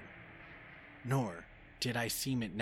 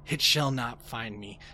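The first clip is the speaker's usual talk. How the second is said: louder, rising terror; defiant shout; 3 semitones higher, 8 dB louder than usual. A narrator's reading. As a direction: brace against the door, voice rising. Terror as the thing arrives.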